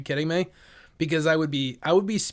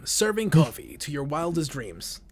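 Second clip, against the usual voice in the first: movie trailer voice; 2 semitones lower, 6 dB quieter, slower than usual. Pretend. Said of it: "movie trailer".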